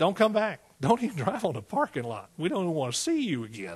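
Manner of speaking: plain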